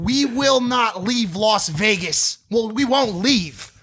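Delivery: high, slow hammed-up threat; mock tough threat. Teller retelling his threat to the heckler, slow and high. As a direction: stretch each word like a movie gangster. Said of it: "I said".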